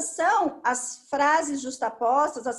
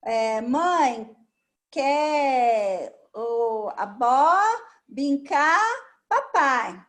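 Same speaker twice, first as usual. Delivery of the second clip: put-on child talk; much slower than usual. Shown as a demonstration. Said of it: "já frases complexas".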